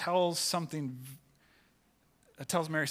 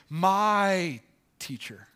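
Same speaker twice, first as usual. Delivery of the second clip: "My teacher" slow and louder, a touch of joyful cry; mild cry out; 4 semitones higher, 7 dB louder, much slower than usual. Acted. Mary recognizing her teacher, a mild joyful cry. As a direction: stretch it out in glad recognition. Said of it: "she cries out".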